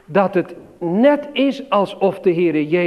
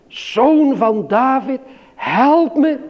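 high, loud, slow cry; calling out; 7 semitones higher, 4 dB louder, slower than usual. Retold or imitated. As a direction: keep crying out for mercy. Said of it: "blijft roepen". (hoog, luid en langzaam roepen)

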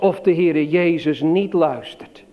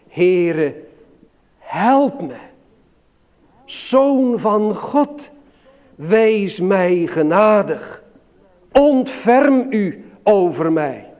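pleading prayer; much slower than usual. Acted. Preacher voices Bartimaeus' plea.

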